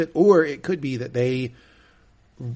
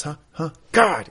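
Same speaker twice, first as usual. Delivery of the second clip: Roman, hostile; 4 semitones higher than usual. Retold or imitated. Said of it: "the hostility he's getting from Roman".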